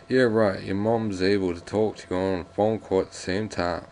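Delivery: put-on American accent; jokey, exaggerated American accent; fantastic American accent. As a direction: read it in a mock American accent. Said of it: "doing my fantastic American accent".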